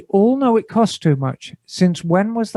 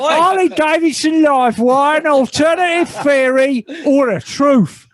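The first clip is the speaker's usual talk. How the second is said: put-on Cockney accent; 8 semitones higher than usual. Podcast host reading a listener email on request, in a hammed-up Cockney accent. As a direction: shout it out like a London barrow boy, Cockney all the way. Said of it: "Cockney, Cockney accent, if possible".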